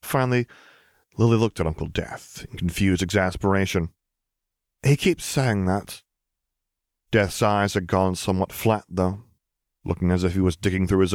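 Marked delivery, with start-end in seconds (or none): 4.8-6.0 exasperated. Acted. Lily exasperated.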